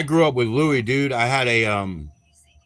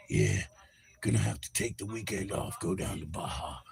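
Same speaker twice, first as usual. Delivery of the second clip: mock drunk Dylan; 4 semitones lower, 11 dB quieter than usual. Imitating Dylan again.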